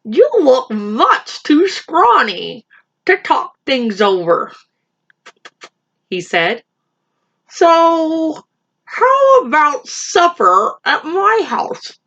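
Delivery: high, slow little rabbit voice; rabbit impression. Little rabbit inviting the lion to supper, high and slow. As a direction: squeak it like a small bold rabbit. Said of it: "That's my impression of a rabbit".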